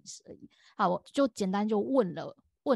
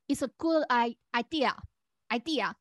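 halting correction; 2 semitones higher, much slower than usual. Retold or imitated. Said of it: "然后我就说".

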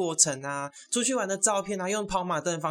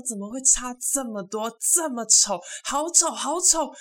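high-pitched mock horror, climbing as it goes; shocked disbelief; 8 semitones higher, 3 dB louder, slower than usual. Server recalls being startled by the groom, shocked high squeal. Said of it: "我那时候真的被吓到".

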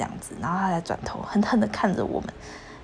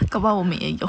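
laughing. Real, not acted. Laughing at the outro.

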